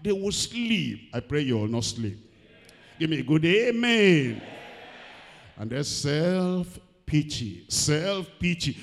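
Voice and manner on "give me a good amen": calling for amen. Real, not acted. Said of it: "calls congregation for amen".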